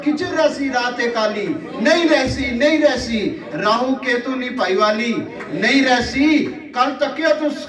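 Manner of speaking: measured mushaira recital, repeating lines for effect; poetry recitation. Acted. Poet reciting verse to a live audience, declaimed. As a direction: declaim verse with drawn-out line endings.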